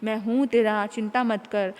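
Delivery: calm the crying son tenderly; father hugging his son, gentle; lovingly. Acted. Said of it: "प्यार से समझाया".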